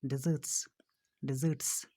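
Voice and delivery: डेजर्ट्स ending in voiceless TS; final S sound. Shown as a demonstration. Teacher drilling pupils on end sounds, final S in डेजर्ट्स. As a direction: repeat डेजर्ट्स with a clear S at the end. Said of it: "स sound पे ख़त्म होता है".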